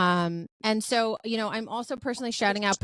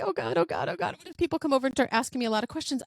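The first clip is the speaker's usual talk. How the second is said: mock panic; 5 semitones higher, faster than usual. Panicking alone at friend's stall.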